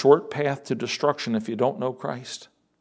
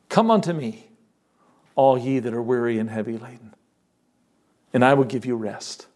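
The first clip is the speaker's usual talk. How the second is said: lower, tender scripture voice; gentle invitation; 4 semitones lower than usual. Acted. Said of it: "sometimes he said it gently".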